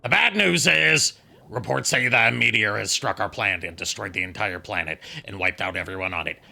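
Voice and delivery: hammed-up doom announcement rising to a wild shout; Nappa bit. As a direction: play the fake tragedy big, then explode with joy. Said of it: "God damn it, Nappa".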